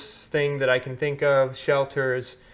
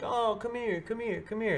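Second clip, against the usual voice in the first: higher, lazy mock call to the dog; husky owner half-heartedly calling his dog; 9 semitones higher, 5 dB quieter than usual.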